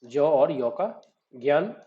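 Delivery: ज और य का ज्ञान spelled out slowly, sound by sound; teacher showing students how ज्ञान splits into sounds; slow sound breakdown. Shown as a demonstration. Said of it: "कैसे होगा प्रोनाउंस".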